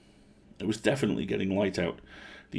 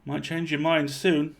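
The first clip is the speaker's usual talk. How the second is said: smirking; 8 semitones higher, slower than usual. A narrator's reading.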